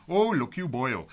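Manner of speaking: hammed-up Welsh accent. Shown as a demonstration. Host admitting he can't sustain it, mock Welsh accent. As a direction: try a brief, unreliable Welsh accent. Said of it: "I can't really do a Welsh accent".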